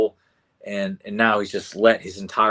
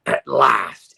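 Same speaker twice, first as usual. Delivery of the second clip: loud, drawn-out villainess gloat; triumphant, stretched-out villain cry; Evelyn; 2 semitones lower, 7 dB louder, much slower than usual. Retold or imitated. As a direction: gloat slowly and loudly, savoring each word. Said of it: "in her Evelyn voice".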